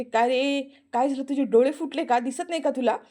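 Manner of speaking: put-on indignant outburst at the clumsy boy; angry scolding. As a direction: tell him off for hurting you. Aarti scolds after being hit.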